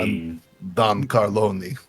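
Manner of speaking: slow, low, soft mob boss growl; mobster voice. Pretend. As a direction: play a slow, menacing Mafia don. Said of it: "I don't even know what voice that was".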